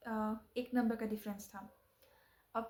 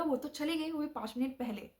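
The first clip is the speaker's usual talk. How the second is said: emphatic repeat; 5 semitones higher than usual. Retold or imitated. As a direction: retell it with disbelief, punching चली. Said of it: "seriously उन्होंने बोला".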